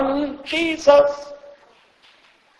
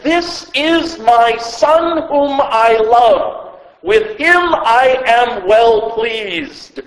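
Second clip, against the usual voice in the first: slow, measured declaration as God the Father; lightly voiced God, each word drawn out; voice from heaven; slower than usual. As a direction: solemnly proclaim it as the heavenly voice. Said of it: "a voice from heaven said".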